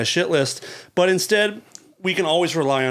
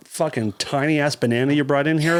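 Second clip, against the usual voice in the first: laughing. Real, not acted. Laughing at tiny banana.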